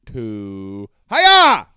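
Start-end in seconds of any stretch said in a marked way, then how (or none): 1.1-1.7 much higher, loud burst of a greeting; peekaboo-style shout; playful hiya. Real, not acted. Greeting his toddler playfully.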